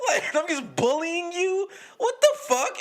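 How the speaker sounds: cracking up at how absurd it was; laughing disbelief. Real, not acted. Laughing at absurd bullying story.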